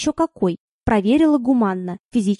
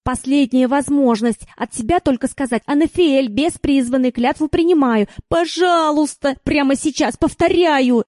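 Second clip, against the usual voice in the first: urgent; 4 semitones higher, 3 dB louder than usual. Acted. Urgent instructing demon.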